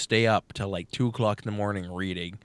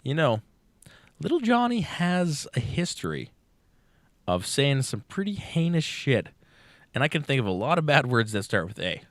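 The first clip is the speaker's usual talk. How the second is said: teacher voice; 5 semitones higher than usual. Retold or imitated. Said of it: "she's like".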